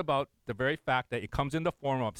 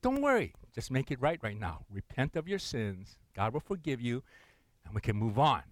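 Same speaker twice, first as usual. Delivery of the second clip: reassuring; 4 semitones lower than usual. Retold or imitated. Pastor comforting crying couple.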